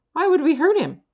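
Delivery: high, loud amazed question; can't believe the idea; astonished. A narrator's reading.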